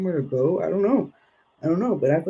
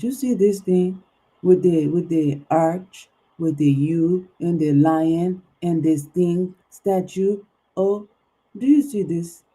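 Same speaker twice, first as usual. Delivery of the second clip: excited; 5 dB louder, slower than usual. Real, not acted. Excitedly showing card imagery.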